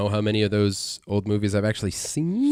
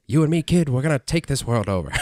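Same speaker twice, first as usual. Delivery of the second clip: radio announcer voice; 3 semitones higher than usual. Shown as a demonstration. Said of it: "Like the radio announcer voice".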